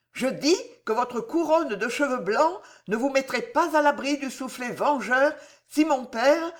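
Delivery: de la dignité offensée à la majesté royale, la voix monte; dignité croissante. Acted. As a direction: monte peu à peu jusqu'à la reine. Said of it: "en se haussant ... jusqu'à la majesté d'une reine". (Jeanne tient tête au connétable, de plus en plus majestueuse)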